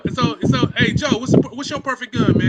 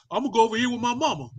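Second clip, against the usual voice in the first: mocking whiny son; 5 dB quieter, faster than usual. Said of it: "what he say?".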